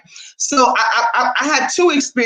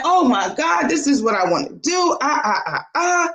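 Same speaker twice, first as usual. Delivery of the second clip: retold excitement. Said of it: "I'm in there excited".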